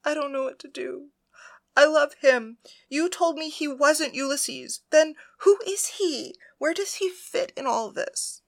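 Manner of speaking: high, crying, a loud burst on the love; tearful distress. A narrator's reading. Penelope weeps to Persephone about her lover, high and tearful. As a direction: sob it out, slowing down. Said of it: "as she began to cry".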